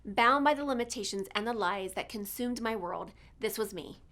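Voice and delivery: measured, earnest intro read; polished, inspirational host introduction; scripted podcast intro. Acted. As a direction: read a motivational show opener with deliberate pauses.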